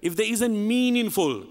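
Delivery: phrase built up to an emphatic "meaningful"; stress on MEANINGFUL. Real, not acted. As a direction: hit "meaningful" firmly. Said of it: "I stress the word meaningful".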